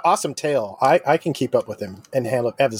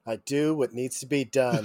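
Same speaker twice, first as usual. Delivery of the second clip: stoic creature; 7 dB quieter than usual. Acted. Player answers as Jimothy, lightly voiced stoic character.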